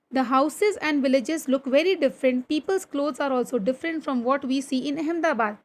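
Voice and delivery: slow, deliberate classroom reading; textbook read-aloud. Acted. Teacher reading a train journey story to pupils, slow read-aloud. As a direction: read it out slowly, phrase by phrase.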